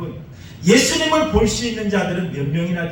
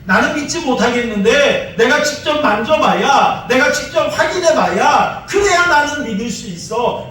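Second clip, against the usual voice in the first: loud, higher, stubborn demand for proof; defiant shout; 3 semitones higher, 4 dB louder than usual. Retold or imitated. Thomas refusing to believe without touching, shouting. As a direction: plant your feet and insist. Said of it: "그랬던 진짜 믿음이 없는 그런 사람이었어요".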